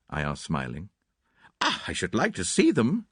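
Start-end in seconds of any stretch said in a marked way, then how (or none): 1.6-3.1 dignified. A narrator's reading. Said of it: "cried Cynthia with dignity".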